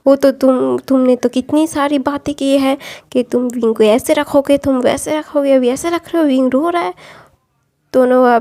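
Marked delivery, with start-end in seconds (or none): 0.1-6.9 mock-accusing a man on her son's behalf; scolding mother. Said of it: "लैन कुरन के ऊपर चिल्ला रही थी".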